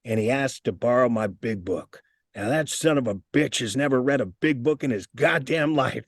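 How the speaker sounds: a hint of a grumpy old man; crotchety old-timer. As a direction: lightly voice the cranky old-timer telling it. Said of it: "he goes".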